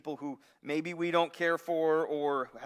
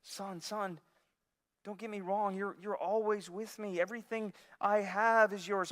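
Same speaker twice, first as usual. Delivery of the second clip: gentle father; 4 semitones higher than usual. Retold or imitated. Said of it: "how does the father respond?".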